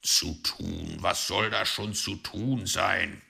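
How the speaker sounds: gruff, dismissive fox retort; irritated fox growl. Acted. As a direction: growl the question back at her. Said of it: "knurrte Herr Fuchs".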